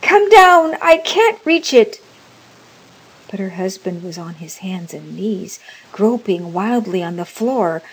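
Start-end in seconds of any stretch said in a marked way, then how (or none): 0.0-2.0 high, urgent shout for help; loud cry. A narrator's reading. Old woman calling husband downstairs to the bolt, loud cry. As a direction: call up loudly, desperate for help. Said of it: "she cried loudly".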